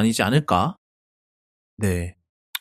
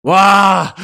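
loud, impressed gasp of a wow; sudden wow of amazement; amazed wow; 4 semitones higher, 6 dB louder than usual. Real, not acted. 1080p streaming reaction. (놀란 감탄)

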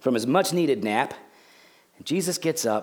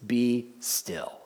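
slow, soft, measured command; calm command; 4 semitones lower, 6 dB quieter, much slower than usual. Acted. Jesus quieting the storm from the boat, calm command. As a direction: speak softly, leaving space between each word. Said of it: "Jesus says three words".

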